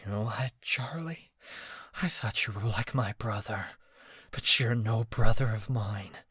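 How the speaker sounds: a hint of a hushed sneer. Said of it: "he sneered".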